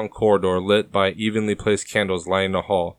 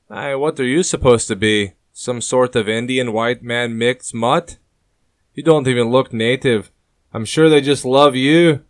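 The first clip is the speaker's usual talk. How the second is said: scoffing; 4 semitones higher, 5 dB louder than usual. A narrator's reading. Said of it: "Shakespeare scoffs".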